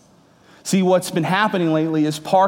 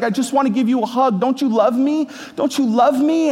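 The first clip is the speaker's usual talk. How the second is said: imitating crying son; 8 semitones higher than usual. Father imitating his son Parker begging through tears, high pleading wail. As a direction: beg like a sobbing four-year-old wanting love. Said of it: "he's bawling, crying, and he's screaming".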